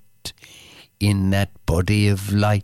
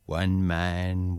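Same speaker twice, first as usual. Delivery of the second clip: whisper; 3 semitones lower, 6 dB quieter than usual. Acted. Whispered line inside the poem.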